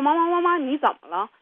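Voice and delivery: put-on an anxious little girl tugging at her mother; child calling mommy. Daughter calling to her crying mother, in a high, loud child voice. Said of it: "她说".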